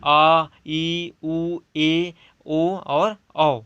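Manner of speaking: long vowels sounded very slowly one by one; slow vowel recital. Shown as a demonstration. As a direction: draw out each vowel for the class. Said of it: "उदाहरण जैसे कि".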